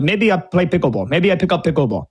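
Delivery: put-on a light, half-hearted Russian accent; barely-there Russian accent, played for a laugh; bad Russian accent. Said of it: "That's my bad im-, imitation of a Russian accent".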